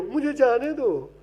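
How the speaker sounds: soft, slow, hammed-up pleading; a hint of a heroine begging to go; mock filmi plea. Heroine begs her father to let her go, soft and slow.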